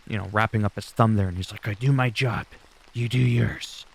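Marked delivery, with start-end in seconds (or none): 1.7-3.9 lightly voiced stone-faced enforcer; deliberately cringy tough line; terrible impression. Solo brushing off Jay, a hint of menace. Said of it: "That was a terrible impre".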